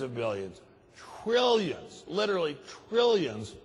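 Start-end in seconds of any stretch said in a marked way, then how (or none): 1.2-3.5 higher and louder on "trillions", nearly shouting it; indignant outburst. Real, not acted. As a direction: hit "trillions" hard, outraged. Indignant correction, billions to trillions.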